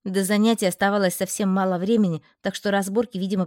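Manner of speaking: plain reading voice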